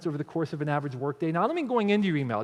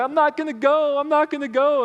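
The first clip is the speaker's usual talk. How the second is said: put-on high, loud kid's protest; child screaming; 8 semitones higher, 6 dB louder than usual. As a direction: wail it like a six-year-old refusing. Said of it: "starts screaming bloody murder".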